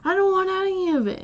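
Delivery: mimicking the customer's high curt no; retelling a fed-up customer's brush-off; curt refusal. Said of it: "she's like".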